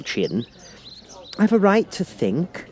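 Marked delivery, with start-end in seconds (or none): 1.4-2.7 high, slow sharp retort; Alice answers sharply, much higher. A narrator's reading. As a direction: snap back, worried. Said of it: "said Alice sharply".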